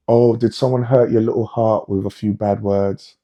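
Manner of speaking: sarcastic pity for hurt feelings; mock sympathy. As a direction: fake concern, mocking someone. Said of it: "mocking someone hurt by words".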